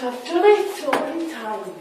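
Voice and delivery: tipsy, slightly slurred. Real, not acted. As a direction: speak like you've had too many. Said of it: "I can't handle drink".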